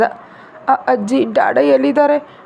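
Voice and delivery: put-on a stammered, teary child's question; mild sob-broken child voice; crying child. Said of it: "Aarav ಅಳ್ತಾ".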